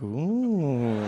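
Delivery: long, impressed "ooh"; intrigued ooh. Retold or imitated. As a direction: coo in drawn-out wonder. Reacts to the charmer's riddle.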